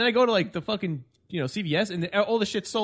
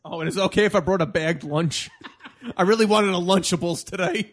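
whiny recruit; 4 dB louder than usual. Pretend. Mock recruit excuses.

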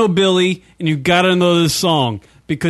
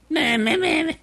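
mocking blah blah; 9 semitones higher, 5 dB quieter than usual. Mocking the song's words.

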